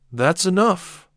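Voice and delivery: father snapping at his son, barked and loud. A narrator's reading. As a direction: cut him off hard. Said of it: "I barked".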